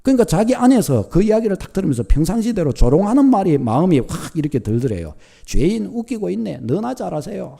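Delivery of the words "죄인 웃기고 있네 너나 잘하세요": a soft scoffing mutter under the breath; mocking mutter. Scoffer sneering inwardly at the preacher, softer muttered mockery. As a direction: sneer it quietly to yourself. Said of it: "마음으로 그냥 중얼거렸대요".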